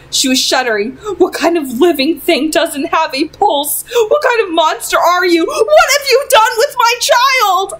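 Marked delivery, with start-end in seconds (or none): 1.2-3.8 horrified question. Acted. Mother's terrified outburst. 4.1-7.7 horrified mother shrinking from a monster; mother's fear building to a shriek; terrified accusation. Acted. Terrified mother confronts son.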